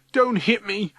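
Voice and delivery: high, pleading, tearful cry; sobbing plea. A narrator's reading. Matthew begging Ryan not to hit him, sobbing. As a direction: beg as if through sobs. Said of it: "sobs Matthew".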